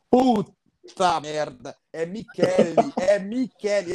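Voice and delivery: espanto encenado, sílabas esticadas; palavrão arrastado de quem percebe o próprio erro; ficha caindo. Retold or imitated. Reação encenada ao descobrir o erro. (reviver devagar o choque da descoberta)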